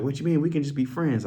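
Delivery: a hint of a woman pleading; imitated woman. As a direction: pitch it up slightly to quote her. Retelling a woman's pleading reply.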